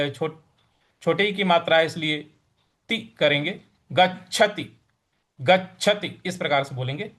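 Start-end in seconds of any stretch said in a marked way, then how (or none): 3.9-6.2 गच्छति with the च्छ pressed firmly; careful teaching take of गच्छति; stressed chh. Shown as a demonstration. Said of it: "च आ रहा है यहाँ पर हमको थोड़ा सा बल लगाना".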